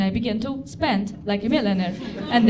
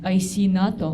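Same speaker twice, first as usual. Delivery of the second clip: Putin at Rorschach; 3 semitones lower, 4 dB louder than usual. Retold or imitated. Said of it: "he's like".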